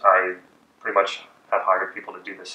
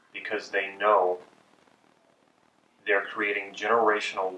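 slow soothing sales pitch; slower than usual. Shown as a demonstration. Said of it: "Second statement might be".

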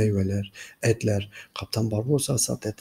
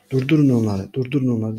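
louder, urgent repeated command; shouted order; 2 semitones higher, 5 dB louder than usual. Acted. Narrington shouting at his men to stop them, urgent. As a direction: yell at them to stop the ship. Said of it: "diye bağırdı".

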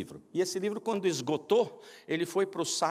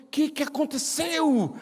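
alarmed question; 11 semitones higher, 5 dB louder, slower than usual. Retold or imitated. Alarmed pastor asks.

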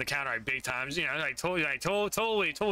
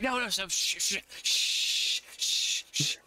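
urgent hushing; 7 semitones higher, slower than usual. Acted.

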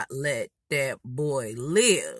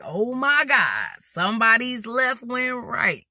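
loud clowning; 5 semitones higher than usual. Retold or imitated. Girl roasting a classmate before the lunchroom, loud mock horror. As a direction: exclaim it high and stretched, for everyone to hear. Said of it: "So I'm loud".

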